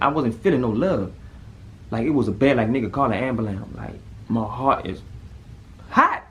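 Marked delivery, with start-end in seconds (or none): 5.9-6.2 panicked yelp. Retold or imitated. Panicked about his burning heart.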